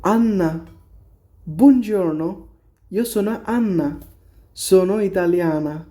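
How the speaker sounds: lightly voiced Anna greeting; teacher reading a textbook dialogue aloud. Shown as a demonstration. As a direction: read the line as Anna introducing herself. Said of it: "dialogue দেওয়া আছে, এটা পড়ে".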